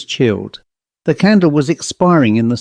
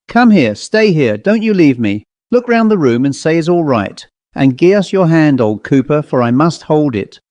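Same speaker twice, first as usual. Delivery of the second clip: a lightly raised, shaken squire; frightened squire. Acted. Squire begs his butler to stay, lightly raised fear. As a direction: plead with him not to leave you.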